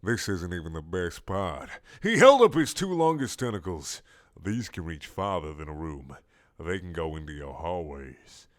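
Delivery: sly monster voice; low boastful squid. Acted. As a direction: tempt him low.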